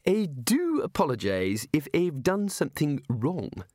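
lightly voiced prim housekeeper. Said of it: "she said".

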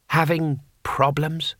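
slow, sneering needling; unhurried, malicious mock concern; nasty. A narrator's reading. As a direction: needle them nastily, drawing it out. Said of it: "said Herb nastily".

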